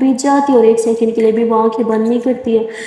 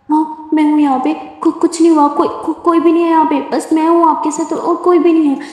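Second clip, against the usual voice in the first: higher, urgent comforting; anxious reassurance; 4 semitones higher than usual. Acted. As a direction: reassure her fast and anxiously. Simran frantically reassuring Durga.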